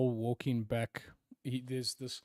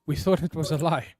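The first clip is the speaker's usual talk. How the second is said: flustered, louder stammering apology; stammering guard; 4 semitones higher, 8 dB louder than usual. Acted. Frightened guards stammer to the empress. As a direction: guards caught out, stumbling over excuses.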